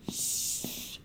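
a sharp whispered shh; quiet him down in the library; hushing whisper. Acted.

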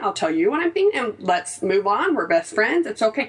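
a hint of sweet soothing; mild coaxing tone to husband; light reassurance. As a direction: gently talk him down. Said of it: "But I'm like".

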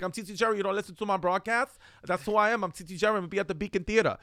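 half-hearted imitation of someone hollering his plugs; T T Jerry. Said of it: "Like, he's just yelling".

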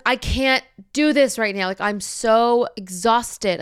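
retold outburst at the end of the rope; venting yell. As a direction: vent loudly, stretching out the exhaustion. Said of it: "like, yelling".

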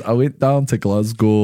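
slow, drawn-out imitation Scottish accent; mock Scottish accent. Teasing a friend about his accent, slow mock Scottish. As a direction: mimic a mate's laboured Scottish accent. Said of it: "He always goes".

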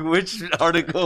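high, slow doubtful question; mock skeptical voice. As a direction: play it like a suspicious reporter. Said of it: "When she said apparatus, I'm like".

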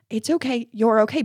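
put-on gentle reassurance for a hurt child; comforting. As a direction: soothe them as you say it. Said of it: "I was comforting her".

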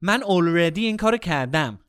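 already in English accent inside Farsi; half English accent. Shown as a demonstration. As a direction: mix the English accent into Persian. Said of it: "I half did it between the accent".

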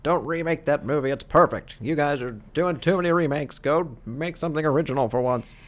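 put-on cranky old man ranting; grumpy old man voice; old man yelling at cloud. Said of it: "the old man who yells at a cloud".

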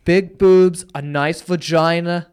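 lightly mimicked kid listing his tastes. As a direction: quote the boy with slow, punchy emphasis. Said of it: "he just goes".

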